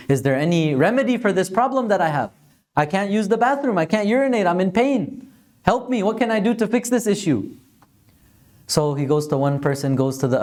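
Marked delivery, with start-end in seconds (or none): 0.1-7.5 retold desperate plea, pitch climbing; imitated pleading. Sick king asking doctors for a remedy, imitated pleading.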